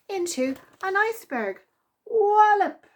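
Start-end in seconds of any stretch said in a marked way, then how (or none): 2.1-2.9 high loud impact word; punchy sound effect shout; loud wallop. A narrator's reading. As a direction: bang it out like a crash. Birds crash into iceberg.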